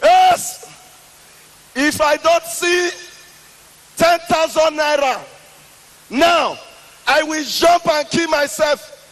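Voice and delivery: shouting threat. Retold or imitated. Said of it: "I started shouting".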